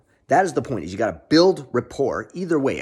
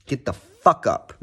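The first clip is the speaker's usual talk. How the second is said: a lightly voiced hype catchphrase; Ice Cold J T catchphrase; slower than usual. Quoting Ice Cold J T to his viewers, lightly hyped. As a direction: channel the coach's hype line. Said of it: "as Ice Cold J T would say".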